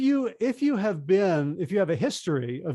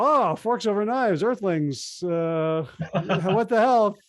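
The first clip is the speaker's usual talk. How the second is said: overeager pushing; 3 semitones higher, 4 dB louder than usual. Retold or imitated. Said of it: "I'm gonna jump all over that bone".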